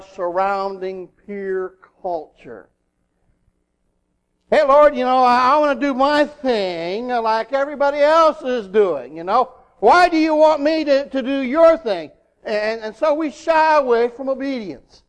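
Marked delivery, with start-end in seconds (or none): 4.5-12.1 lightly acted whining objection to God; mock complaint. Preacher voicing a believer who wants his own way, mock complaint. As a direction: push back at the Lord, a bit higher.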